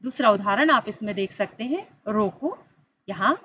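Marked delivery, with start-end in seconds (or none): 2.1-2.6 "रोको" set apart, rising, then a stop; pause after रोको. Shown as a demonstration. Teacher shows pupils where the comma sits, pause after रोको. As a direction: halt right after रोको. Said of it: "अर्धविराम लगा है".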